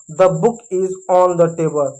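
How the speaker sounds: very slow, word by word; slow model sentence. Shown as a demonstration. Teacher showing students the English sentence, very slow. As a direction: say it slowly so kids can copy. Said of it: "इसका sentence कैसे बनेगा?".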